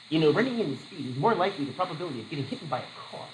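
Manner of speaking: lightly mocked reasoning parent; over-explaining parent. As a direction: rattle off a dry explanation to a two-year-old. Mock over-explaining to toddler.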